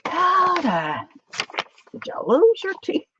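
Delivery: high, wailing mock sob; mock crying mom. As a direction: wail it like a tearful mother. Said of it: "mom crying over lost teeth".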